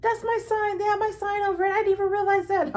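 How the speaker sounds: amused high voice of the friend spotting her sign; imitating friend laughing. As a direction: mimic her giggling surprise. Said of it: "And she was like".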